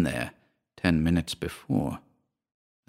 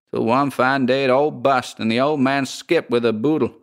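slightly higher, folksy American landlady; drawling landlady; 5 semitones higher than usual. Acted. Landlady tells the scandal.

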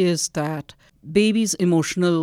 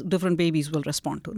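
ordinary talk

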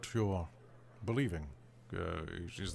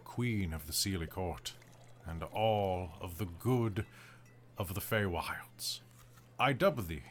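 solemn ancient fey lord, calm; cold sweet ancient calm; 4 semitones lower, 4 dB quieter than usual. Acted. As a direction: dub them with ancient calm. Fey knight dubbing ceremony.

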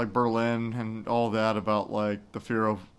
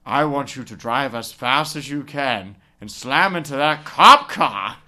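lightly acted threat, louder on the end; gunman's order; 6 dB louder, slower than usual. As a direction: imitate a gunman ordering a driver. Acting the gunman threatening a cabbie.

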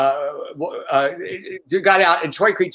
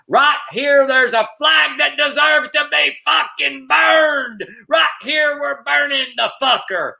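angry Southern redneck rant; 8 semitones higher than usual. Retold or imitated. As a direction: rant at the queers in a Southern drawl, hammed up. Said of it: "he had a Southern accent".

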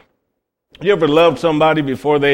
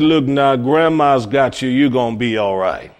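soothing grandma; 4 semitones lower than usual. Retold or imitated. Grandma soothing sick baby.

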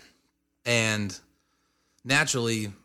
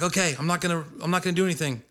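high-pitched retold reassurance; mock placating; 7 semitones higher, faster than usual. Promising the bouncer he will stay out, mock placating. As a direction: act out agreeing so he backs off.

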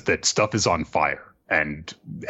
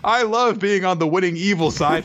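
a giddy henchman squealing; gleeful goons; 12 semitones higher than usual. Retold or imitated. Beast Pirates celebrating being on the evil side, squeaky and giddy. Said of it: "Beast Pirates are like".

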